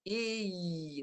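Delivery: long "I" closing into a tight y sound. Shown as a demonstration. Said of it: "tengah lidah naik".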